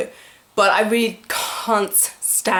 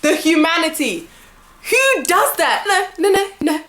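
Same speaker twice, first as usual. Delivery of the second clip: mock despair; 6 semitones higher than usual. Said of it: "mock despair over damaged game".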